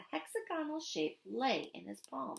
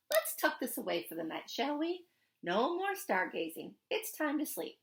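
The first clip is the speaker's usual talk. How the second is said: faux stern; 3 semitones higher than usual. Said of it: "faux stern frown".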